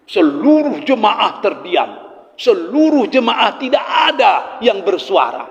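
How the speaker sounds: slow, drawn-out emphatic preaching; preacher hammering home a total hush; dramatic emphasis. Retold or imitated. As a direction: stretch SELURUH, pitch swooping up for drama. Climax of awed congregation story.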